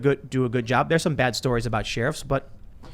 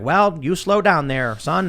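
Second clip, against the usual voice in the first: slow drawn-out fatherly cop; slow, easygoing small-town sheriff; folksy cop; 3 semitones higher, much slower than usual. Retold or imitated. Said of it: "And like".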